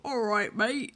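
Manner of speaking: mock British accent, as a character would; imitated British accent. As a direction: put on a matey British accent. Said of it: "Having to have Ty go".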